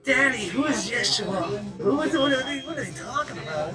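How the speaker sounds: put-on high-pitched child asking Daddy; little kid. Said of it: "giggling about it like a kid".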